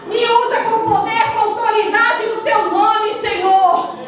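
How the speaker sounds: rising, sing-song intercession, pressing each plea to the Lord; fervent prayer. Real, not acted. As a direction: pray with building fervour, half chanting. Oração fervorosa em voz alta. (oração fervorosa, quase cantada, em tom de clamor)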